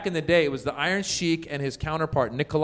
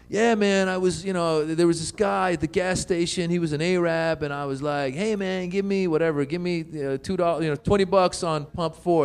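lightly voiced club comic, a bit higher; hack stand-up comedian; 4 semitones higher than usual. Mocking comedians telling gas station jokes, light club-comic impression. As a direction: mimic a casual stand-up setup. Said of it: "comedians would go up on stage".

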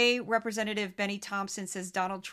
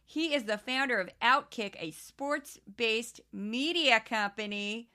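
crazy Midwestern accent. Shown as a demonstration. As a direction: read the bio in a hint of a Midwestern accent. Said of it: "use his title in this voice".

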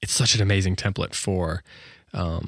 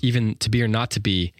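contemplative; 3 semitones higher than usual. Shown as a demonstration. Teacher slowing down to show the line's weight. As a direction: let each word sit, contemplative. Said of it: "feels contemplative".

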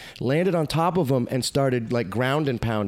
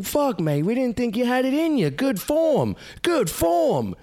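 much higher, mock Aussie bouncer praise; proud security guards; 12 semitones higher than usual. Security guards praising him after pulling him off the fight. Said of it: "and they go".

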